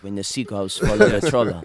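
put-on French accent for laughs; hammed-up French accent, Cantona-style. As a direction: do a jokey French accent on request. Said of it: "read this in a French accent".

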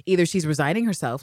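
normal talking voice

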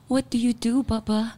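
put-on high-pitched little girl scolding her dad; child's lecture voice. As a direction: play the small daughter lecturing Baba on and on. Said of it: "she goes".

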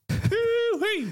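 very high mock Southern US whoop; hammed-up high American holler; funny US accent. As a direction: whoop it up like a cartoon American cowboy. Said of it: "those funny accents in the U S".

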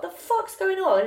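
high, slow, challenging demand; confrontational. Retold or imitated. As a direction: square up to him. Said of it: "I was like".

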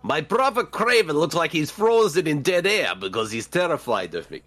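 mock-Russian character making an entrance; fake Russian accent. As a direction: put on a hammy Russian accent. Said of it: "fake Russian accent? It's me".

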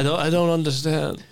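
a pompous crime boss gloating to his crew; Tooth Fairy mob boss. Acted.

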